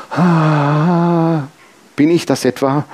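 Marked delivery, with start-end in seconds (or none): 0.1-1.4 erleichtertes Ah. Retold or imitated. Erleichtertes Aufatmen nach Bibelvers.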